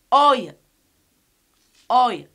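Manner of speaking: "oy" punched loud as "oy-uh"; triphthong pronunciation. Shown as a demonstration. Teacher repeating what we have, "oy" as "oy-uh". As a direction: end "oy" on a weak schwa. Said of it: "We say".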